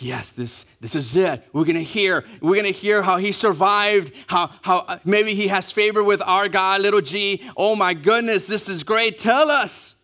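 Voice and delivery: rising giddy anticipation, ending high; excited eager listeners, ending in a high plea; excited crowd. Retold or imitated. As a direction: gush like a crowd about to hear a tale. Voicing eager Ninevite crowd.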